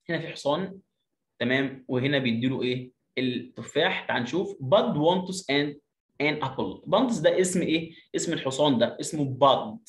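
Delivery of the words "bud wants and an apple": put-on slow, clear reading for children; slow teacher read-aloud; slow model reading. Shown as a demonstration. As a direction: read it out slowly, word by word.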